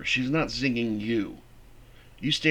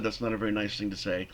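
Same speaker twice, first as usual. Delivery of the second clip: soft, quick, unruffled reply; calm, no anger; 3 semitones lower, 5 dB quieter, faster than usual. Shown as a demonstration. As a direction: answer without any heat. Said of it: "Did you see any anger there?".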